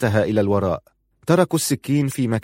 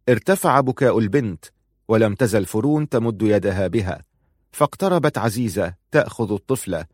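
usual speaking voice

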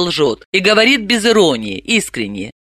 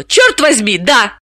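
exclaiming; 5 semitones higher than usual. Acted. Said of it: "Далила воскликнула".

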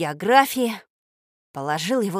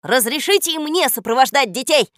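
raised, louder polite request; parrot's request; 5 semitones higher, 6 dB louder than usual. A narrator's reading. Parrot asks to accompany the children, requesting. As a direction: ask formally, pitched up. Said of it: "попросил попугай".

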